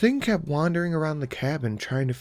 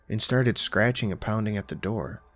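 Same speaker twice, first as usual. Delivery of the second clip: plain reading voice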